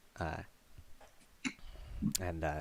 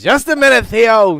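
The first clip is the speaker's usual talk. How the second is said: raised, loud call from another room; calling back; 12 semitones higher, 15 dB louder than usual. Acted. Dad answering his son, calling out loudly. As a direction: holler back to your kid.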